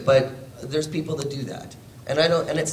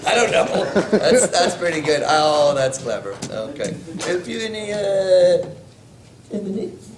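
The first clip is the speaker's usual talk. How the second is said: put-on a higher, louder South African accent, working it out while laughing; a laughing, tentative stab at a South African accent; 7 semitones higher, 4 dB louder than usual. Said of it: "make a South African ask for breakfast".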